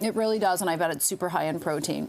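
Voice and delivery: talking with mouth full; words round a bite of food. Real, not acted. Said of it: "I'm so sorry to be talking with my mouth full".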